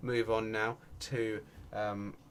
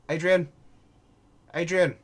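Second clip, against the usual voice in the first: loud, higher call to a player; 8 semitones higher, 11 dB louder than usual. Pretend. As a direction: shout the name to get his attention. Calling out to player Adrian.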